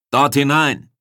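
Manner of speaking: high, loud command; shouted order. A narrator's reading. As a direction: call out the way to the troops. Leader shouts an order under threat.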